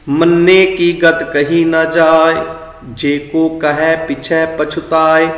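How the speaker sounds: slow sung paath; gurbani recitation. Acted. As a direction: recite the verses slowly, chanting. Chants the passage. (ਹੌਲੀ ਗਾ ਕੇ ਪਾਠ)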